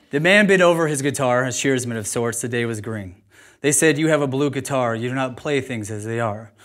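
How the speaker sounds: reading the poem from the page, steady. Acted. Speaker reads poem from paper, steady. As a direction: read it aloud, measured. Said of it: "I'm gonna read it".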